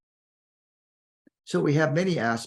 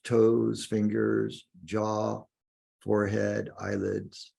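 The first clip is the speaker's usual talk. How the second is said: guided meditation. Acted. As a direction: guide the listener inward, lingering on key words.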